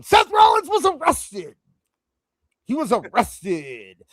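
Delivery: slow, dramatic AI narrator announcement; AI news voice. Pretend. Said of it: "We sound like an A I channel".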